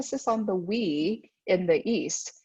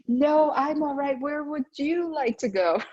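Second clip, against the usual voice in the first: polite Asian adults deferring; 5 semitones higher than usual. Retold or imitated. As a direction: act out hesitant hosts who each insist the other should choose. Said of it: "'cause they say".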